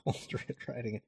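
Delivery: quiet laughing repeat. Real, not acted. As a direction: chuckle through it softly.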